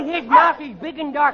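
usual speaking voice

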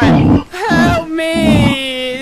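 loud cry for help, then hollering; shouting at the monster. Real, not acted. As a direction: holler it out over the danger.

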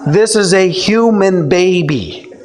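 high, laughing are-you-kidding; incredulous chuckle; laughing disbelief. Real, not acted. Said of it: "Are you kidding?".

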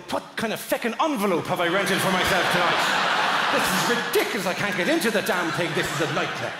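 mildly hammed-up exasperation; exasperated rant. Guest lying on top of the bed, exasperated mock rant. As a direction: grumble in mock outrage.

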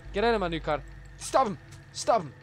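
loud shouted orders; shouting. Real, not acted. Shouting orders while stealing a car, loud. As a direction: bark them out loud.

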